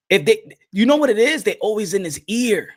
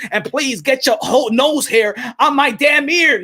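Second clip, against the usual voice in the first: mock shout at Ellerbe. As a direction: shout him out of your ear. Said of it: "it's time for Gervonta Tank Davis to tell".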